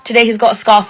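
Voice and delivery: mock the staff being sweet to parents; imitating smiley niceness. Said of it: "all nice and smiley".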